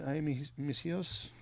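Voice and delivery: slow drawn-out wail; mournful ghostly moan; weeping ghost woman. Retold or imitated. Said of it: "is that how you say it?".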